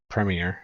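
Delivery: premier as PREM-ee-er; all letters pronounced. Shown as a demonstration. American agreeing with British logic, "premier" as PREM-ee-er. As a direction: stress the front of "premier". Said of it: "to pronounce all the letters".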